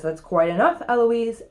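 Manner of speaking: firm, measured reprimand; lightly voiced cross tutor; angry tutor. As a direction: put your foot down, mildly stern. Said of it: "Here's what makes Philip angry".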